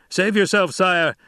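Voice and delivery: high, urgent soldier's shout. Acted. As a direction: warn the Emperor to flee. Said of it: "a Sardaukar officer shouted".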